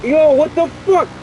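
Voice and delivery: high, loud startled yell; sudden loud what-the-hell; shocked outburst. Real, not acted. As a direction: blurt it out in real shock.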